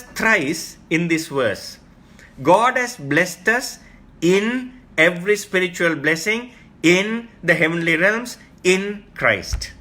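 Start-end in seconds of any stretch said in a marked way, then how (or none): 2.4-9.7 slow, raised proclamation, stretching "realms"; slow emphatic. Shown as a demonstration. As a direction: slowly proclaim it as the key line. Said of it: "Let me repeat that".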